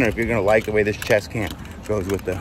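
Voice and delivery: breathless, puffing between words; out of breath. Real, not acted. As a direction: talk while catching your breath. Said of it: "whew, I'm out of breath".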